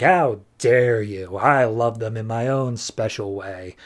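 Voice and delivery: slow, drawn-out mock indignation; lightly voiced villain taking offence, slowly; mock offended villain. Acted villain's offended reply.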